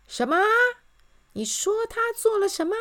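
high, loud cry of disbelief; shouting in disbelief. A narrator's reading. King cannot believe his ears, shouting. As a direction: shout it as a shocked question. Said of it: "他放声大叫".

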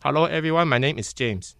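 Malaysian English. Retold or imitated. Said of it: "你变成马来西亚腔".

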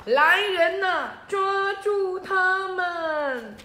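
very loud, slow drawn-out order; king's command shout. Acted. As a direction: bellow for the guards. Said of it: "最后国王就说出来". (国王拉长声音大喊命令)

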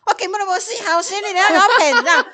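high, laughing mock scolding; grandma's retort. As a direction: play grandma telling the scammer off, half laughing. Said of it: "然后我阿嬷就跟他说".

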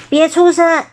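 mild storybook shout from a soldier; soldier's bellow. A narrator's reading. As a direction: bark it as a soldier's command, not at full force. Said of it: "雪士兵大吼".

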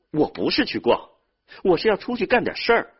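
loud, high, insistent objection; hurt protest. Acted. Younger brother defending his wish to go out working, protesting. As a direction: push back quickly, rising sharply in pitch.

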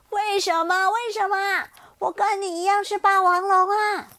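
loud, high, pained why; anguished outcry. Acted. T-rex bitten by Xiaoliang, loud anguished cry. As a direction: cry out betrayed.

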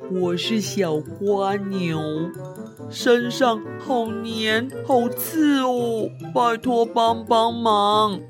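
slow, pleading snail; little snail voice. Acted. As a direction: whimper for help, little snail. Snail introduces itself.

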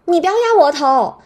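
high, loud yell; very loud, high-pitched order to stop. Retold or imitated. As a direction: shout it at the nurse. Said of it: "我就很大声地说".

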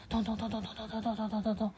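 quick thumping heartbeat imitated; heartbeat sounds. Explaining a fast heartbeat to a child, imitated thumping. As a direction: tap out a racing heartbeat with the voice. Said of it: "心跳太快的时候".

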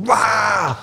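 mock wail. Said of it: "我们全家每一个人跟着趴在地上".

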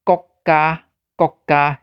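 国家 with a clipped stop on 国, said twice; Taiwanese word demo. Shown as a demonstration. Teacher comparing Taiwanese 国家 to Japanese for learners. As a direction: stop 国 abruptly then 家. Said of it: "你有感觉真像无".

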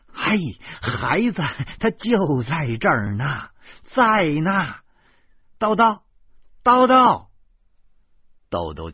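high, loud calling out; urgent shout. A narrator's reading. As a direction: call out fast to stop him, rising to a shout. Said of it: "马上喊道". (急忙高声大喊)

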